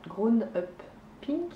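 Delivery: self-mocking French-accented attempt at English. Knitter reading the yarn colourway, in a mock English accent. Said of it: "avec mon magnifique accent anglais".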